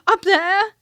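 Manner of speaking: high, loud shout; frightened shout. A narrator's reading. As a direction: shout and point in fear. Piglet frightened pointing.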